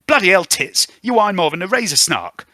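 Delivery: put-on high, loud cockney girl snapping at the radio; squeaky street urchin, loud and rude; Spring's voice. Spring griping at the truck radio, high and loud.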